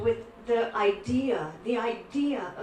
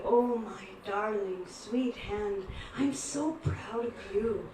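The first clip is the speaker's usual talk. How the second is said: doting. Retold or imitated. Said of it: "he starts to massage and pet his own".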